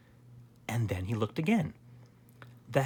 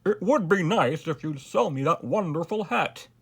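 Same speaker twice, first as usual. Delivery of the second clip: higher, genial royal request; smiling king; 5 semitones higher, 4 dB louder than usual. A narrator's reading. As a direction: ask with a smile in the voice. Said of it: "smiled the king".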